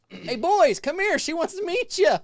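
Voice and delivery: loud, high yell across a crowd; yelling across the park. Retold or imitated. Woman at the haunt hollering to the teenage boys, loud and high. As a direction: call the boys over at full voice. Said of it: "I'm yelling across the park".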